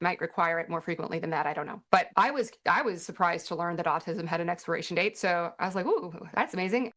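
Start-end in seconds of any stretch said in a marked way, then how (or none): 5.9-6.9 mock-impressed ooh, dripping with irony; sarcastic. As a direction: feign amazement, not meaning a word. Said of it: "I'm being very sarcastic".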